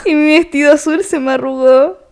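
leer el verso sin cantar; recitado de letra. Shown as a demonstration. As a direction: recitar con cadencia de poema. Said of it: "yo estoy recitando". (declamación sencilla de canción)

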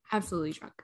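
unvoiced whispered aside. Real, not acted. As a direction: whisper it like a secret. Confiding aside.

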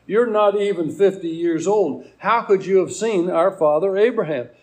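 emphatic, disbelieving questioning; incredulous challenge. Acted. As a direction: challenge him as if it were impossible. Acted challenge from Jesus' questioners.

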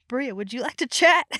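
whispered invitation. Retold or imitated. Retold aside to her dog.

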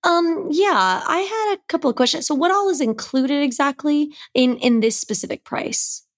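high, sweet mother-in-law voice; pretend bride's mother. Mother-in-law role-playing a client asking the photographer about price, high sweet voice.

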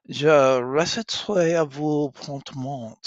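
loud eager princess; eager to show off. Acted. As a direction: recite it with pride. Catherine eager to recite.

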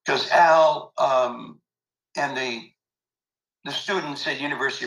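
choked up remembering his mentor; real tears rising. Real, not acted. Remembering Al Pia, choked up with real tears. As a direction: voice catching with real emotion. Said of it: "as I am right now, emotional".

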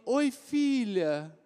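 slow, tender calming greeting; calm the crying baby gently; soothing mother. Retold or imitated. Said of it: "A Denise falou assim". (mãe acalmando, voz terna e lenta)

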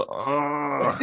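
Master P grunt. Retold or imitated. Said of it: "make him go".

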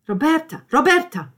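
high, loud, urgent calls; calling after. Acted. Calling after Roberta as she leaves, urgent shout. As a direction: call the name twice to stop her.

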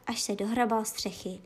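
usual speaking voice

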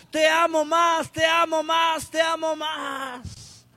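high shouted plea, fading at the end; pleading cry. Acted. Preacher voicing Jesus answering the crowd, high cry fading. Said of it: "Y él decía".

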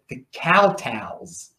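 drawn-out Baltimore "Cow Tales", slowly; Baltimore accent. Shown as a demonstration. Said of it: "That's my Baltimore accent".

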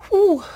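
shaky whew holding back tears; emotional exhale. Real, not acted. Nurse steadying herself while retelling her breakdown, emotional whew. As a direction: let out a high emotional breath. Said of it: "I'm not getting emotional".

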